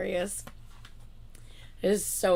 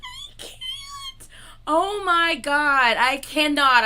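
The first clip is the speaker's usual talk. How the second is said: loud laughing disbelief; cracking up, barely able to speak; real laughing outburst; 9 semitones higher, 8 dB louder, much slower than usual. Real, not acted. Overwhelmed by viewers' joke.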